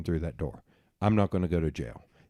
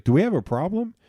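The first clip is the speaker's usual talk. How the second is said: higher, louder owner stepping in; loud challenge from the owner; bar owner; 10 semitones higher, 5 dB louder than usual. Retold or imitated. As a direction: ask it as the ex-Navy owner squaring up. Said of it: "and he was like".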